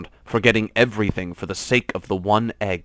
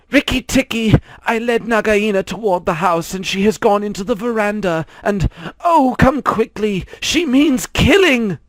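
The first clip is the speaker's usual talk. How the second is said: high, loud, panicked bird cry; frantic scream; 12 semitones higher, 5 dB louder than usual. A narrator's reading. Darzy's wife screams to Rikki Tikki, frantic. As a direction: shriek the warning in terror. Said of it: "Darzy's wife screaming".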